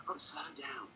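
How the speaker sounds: slowed-down mock guru calm; slowing down, zen. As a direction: talk yourself into a zen calm. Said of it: "Slow down like Deepak and Robin".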